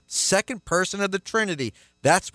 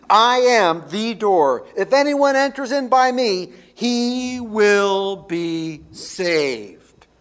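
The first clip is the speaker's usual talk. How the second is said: "I am the door" louder and slow, "he will be saved" drawn out very slowly; slow emphatic; 4 semitones higher, 5 dB louder, slower than usual. Shown as a demonstration. Pastor pressing Christ's promise on the congregation, slow and emphatic. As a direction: lean on every word of the promise. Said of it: "Notice these promises".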